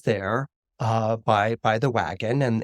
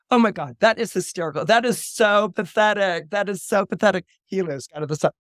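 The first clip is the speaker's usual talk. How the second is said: derisive, higher-pitched jeering; scornful teen sneer; mocking schoolmates; 5 semitones higher than usual. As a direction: ridicule him to his face. Schoolmates mock the boy.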